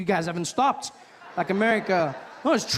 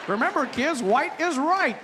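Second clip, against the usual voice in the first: higher, bright mascot voice; cheesy kids' host; 5 semitones higher than usual. Pretend. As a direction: preach it like a children's TV host. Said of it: "coming out singing to all the white kids".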